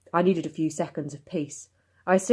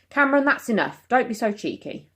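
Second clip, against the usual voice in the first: scolding mother; 8 semitones higher than usual. Acted. Mum scolding Cameron.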